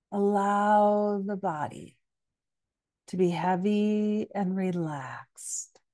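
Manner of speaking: calm yoga nidra guidance with long pauses; unhurried meditation teacher's voice; guided meditation. Acted. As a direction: gently lead listeners into rest, leaving space between phrases.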